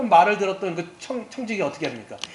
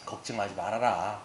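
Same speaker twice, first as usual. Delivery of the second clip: reassuring; 3 dB quieter than usual. Retold or imitated. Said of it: "위로를 청지기가 해주는 거예요".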